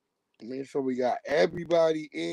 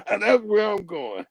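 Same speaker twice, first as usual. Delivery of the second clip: chuckling through it, a bit higher and louder; laughing; 4 semitones higher, 5 dB louder than usual. Real, not acted. Signing off the stream to go pray, laughing. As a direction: laugh as you head off.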